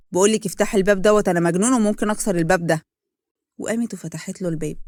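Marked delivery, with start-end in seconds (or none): 0.1-2.8 loud, furious door threat. Acted. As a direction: yell the threat through the door. (تهديد بصوت عالي وغاضب)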